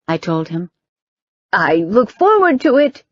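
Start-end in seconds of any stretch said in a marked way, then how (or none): 1.5-3.0 called out. A narrator's reading. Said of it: "the rabbi called out".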